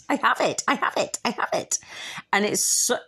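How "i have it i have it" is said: hushed, breathy repeat; whispered. Real, not acted. Telling listeners she owns the house, whispered. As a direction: whisper it to yourself, savouring. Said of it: "fucking have that".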